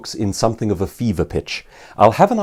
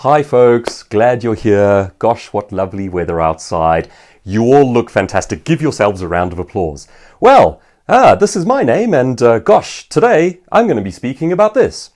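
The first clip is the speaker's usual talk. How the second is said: mock the cheesy host who pads the start, louder and stumbling; waffly bad opener; 4 dB louder than usual. Shown as a demonstration. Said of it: "The worst speeches begin like this".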